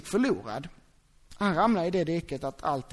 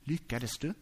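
quiet question; 6 semitones lower, 7 dB quieter, slower than usual. Shown as a demonstration. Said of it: "Är det så här".

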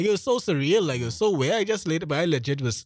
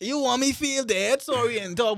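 incredulous; 10 semitones higher than usual. Real, not acted. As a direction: drag it out in disbelief. Mocking expectation to mourn stranger.

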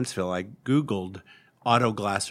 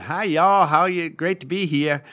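put-on deep Southern accent; 8 semitones higher, 8 dB louder than usual. Store clerk answering the phone, deep Southern accent. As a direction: greet them in a hammed-up Southern accent. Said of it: "with a very deep Southern accent".

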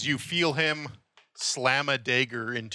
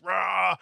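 anime battle roar; 5 semitones higher than usual. Retold or imitated. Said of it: "anime things where".

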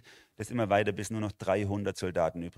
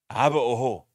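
astonished, raised and louder aber oho; amazed oho; 3 semitones higher, 7 dB louder than usual. Shown as a demonstration. Preacher voices God encouraging little Bethlehem, amazed. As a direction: say aber oho like wow, what's coming. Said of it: "oho meint so erstaunt".

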